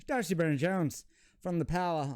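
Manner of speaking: a light put-on Irish accent on the player's name. Card opener naming a pulled player in a light Irish accent. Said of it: "that is the last accent I'll ever do".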